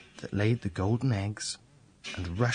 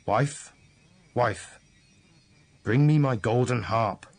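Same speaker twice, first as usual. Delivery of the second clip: ogre calling; 3 dB louder than usual. Acted. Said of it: "he called out".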